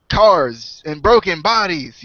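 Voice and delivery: slow quoted commentator line, lightly done. Acted. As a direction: draw out a borrowed commentary catchphrase. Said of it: "I just wanted to say a J R line".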